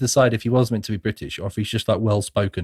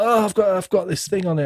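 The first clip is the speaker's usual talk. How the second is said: mock panic; 8 semitones higher than usual. Acting out panicked man with leech.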